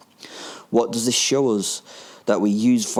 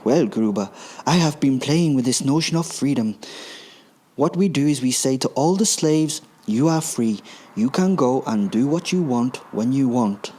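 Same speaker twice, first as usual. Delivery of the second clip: scheming villain Hans; 3 semitones higher than usual. Acted. Hans answers Gruber in story.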